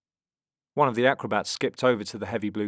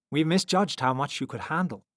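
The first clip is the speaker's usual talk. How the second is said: sincere, higher-pitched apology; 6 semitones higher, 3 dB louder than usual. A narrator's reading. Strong man apologises to the children, sincerely. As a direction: own up to it sincerely. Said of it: "continued the strong man sincerely".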